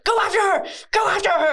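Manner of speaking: high, urgent repeated order; commanding Madame Morrible. Retold or imitated. Madame Morrible ordering Glinda, high urgent voice.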